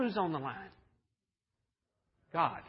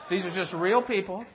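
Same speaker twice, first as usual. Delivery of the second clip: laughing; 5 dB louder than usual. Real, not acted. Laughing aside to the crowd.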